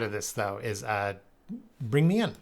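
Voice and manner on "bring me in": a badly done Australian accent, lightly put on; Mel Gibson Mad Max Australian. Playing a movie tough guy to his audience, terrible Australian accent. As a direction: growl it out as a movie road warrior in a clumsy Australian accent. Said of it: "terrible Australian accent from, uh, Mel Gibson and Mad Max".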